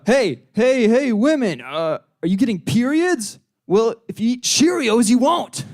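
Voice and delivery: punchy mock cereal sales pitch; mock advertising pitch. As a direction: call out like a hokey cereal ad.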